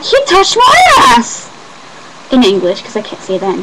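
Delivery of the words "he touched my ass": very high, loud outraged shriek; shrill shocked cry to sister; shrieking complaint. Retold or imitated. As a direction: squeal it to your sister in shock. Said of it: "And I'm like".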